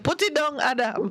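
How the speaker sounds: a hint of a stern God; mock-stern divine command; God's command. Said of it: "God said".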